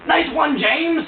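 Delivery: high, loud mock cheer. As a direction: shout it like a cheering fan. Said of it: "he's like".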